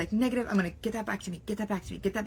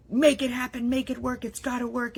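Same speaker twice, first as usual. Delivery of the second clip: pushy hustle mantra; 5 semitones higher than usual. Retold or imitated. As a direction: chant it like a hustle checklist. Mock hustle self-talk.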